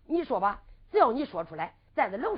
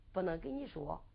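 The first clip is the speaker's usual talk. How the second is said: tearful refusal; 7 semitones lower, 12 dB quieter than usual. Acted. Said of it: "又哭了".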